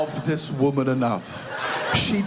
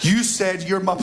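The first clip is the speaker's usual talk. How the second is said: failing to keep a straight face; rehearsed line breaking into laughter; cracking up. Acted. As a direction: burst out laughing as you finish. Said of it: "must have just been in the car being like".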